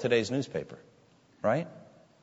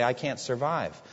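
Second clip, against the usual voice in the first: hushed, softer admission of need; low-key humbled plea; humble inner confession; 4 semitones lower, 7 dB quieter than usual. Acted. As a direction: quietly confess you can't make it alone. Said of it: "look inward and say".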